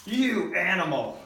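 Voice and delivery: slow outraged cry. Acted. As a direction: spit out the insult slowly. Chief hears chips eaten.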